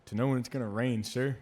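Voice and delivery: imitated recruit, a bit loud; lightly voiced earnest recruit reply; recruit answering. Kid explaining his pine cone to the instructor, mock-earnest recruit. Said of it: "And the kid goes".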